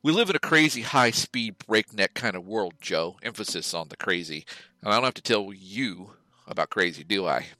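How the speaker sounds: hammed-up commercial pitch voice; mock ad read. Reading the podcast sponsor copy to Joe, mock ad read. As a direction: sell the fake product like a cheesy TV spot.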